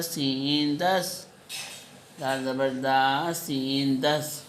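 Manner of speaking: put-on slow, drawn-out syllable-by-syllable spelling for young children; slow spelling drill. Shown as a demonstration. Teacher spelling out letter sounds slowly for her pupils. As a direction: spell each sound out slowly so the kids can follow.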